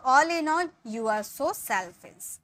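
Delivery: slow, deliberate teaching read; slow model sentence. Shown as a demonstration. Teacher modelling the full sentence slowly. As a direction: spell it out slowly for the class. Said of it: "इसके लिए बोलेंगे".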